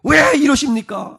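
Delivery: high-pitched, anguished protest to God; acted outburst of frustrated pleading; pouring out complaint. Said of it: "하면서 막 쏟아놓는 거죠".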